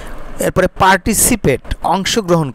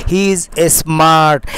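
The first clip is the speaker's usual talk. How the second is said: slow dictation; much slower than usual. Shown as a demonstration. Teacher dictates model sentence.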